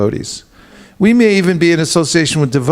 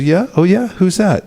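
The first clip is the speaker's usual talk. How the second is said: higher, sceptical wife's voice; a suspicious wife, pitched up; alligator wife; 5 semitones higher than usual. Retold or imitated. Alligator wife asks her husband who his new friend is, suspicious. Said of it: "He says".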